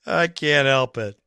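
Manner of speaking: ordinary talk, nothing marked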